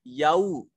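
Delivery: याउ as या then उ, never as यौ; correct pronunciation. Shown as a demonstration. Teacher repeats याउ, the right way. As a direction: say याउ in two parts. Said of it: "इसको यौ नहीं पढ़ेंगे".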